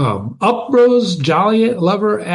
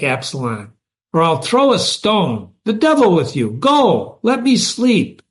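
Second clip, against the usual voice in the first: annoyed rebuff; 5 semitones higher than usual. Acted. Allison rebuffs Absalom angrily.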